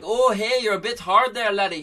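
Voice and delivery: a cheeky local ribbing his neighbour; Irish villager voice. Acted.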